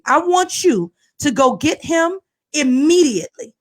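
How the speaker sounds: slow, measured demand; deliberate, no-nonsense insistence; dead serious. Retold or imitated. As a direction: spell out the order firmly, word by word. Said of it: "I was so serious".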